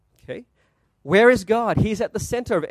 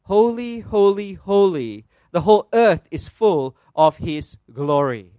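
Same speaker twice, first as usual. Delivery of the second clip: slow, mildly raised proclamation; crying out; 4 dB louder, slower than usual. Acted. Preacher voicing what the seraphim cry, mildly crying out. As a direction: proclaim each word with measured weight. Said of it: "notice what they're crying out".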